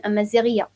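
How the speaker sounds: "أمازيغية" with a clear feminine -iya; feminine ending. Shown as a demonstration. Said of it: "so you're saying".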